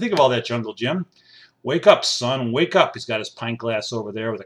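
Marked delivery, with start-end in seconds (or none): 1.6-2.9 calling out. Real, not acted. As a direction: rouse the sleepy keyboard player. Waking the sleeping musician.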